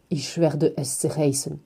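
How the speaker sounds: slow, quiet German words; child's German line. A narrator's reading. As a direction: say it softly in German, slowly. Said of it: "et je dis en allemand". (phrase allemande lente et feutrée)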